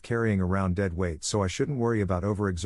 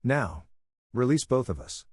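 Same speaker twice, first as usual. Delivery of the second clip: yelled command; 4 semitones higher than usual. Acted. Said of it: "The boy yelled back".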